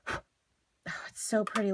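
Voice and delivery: hushed, breathless whisper of delight; soft whispered admiration; awed whisper. Real, not acted. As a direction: breathe it out in wonder. Admiring the finished pieces.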